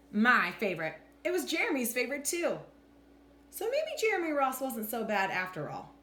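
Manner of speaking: animated picture-book narration with deliberate pauses; expressive, measured storytime voice; story read-aloud. A narrator's reading. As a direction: read to children, lifting and dropping the pitch for drama.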